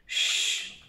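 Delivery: voiceless "Ch-" hissed alone; soft drawn "Ch-" without voice; sounding out. Shown as a demonstration. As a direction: hiss out the "Ch-" sound. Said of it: "Il y a deux syllabes dans chair".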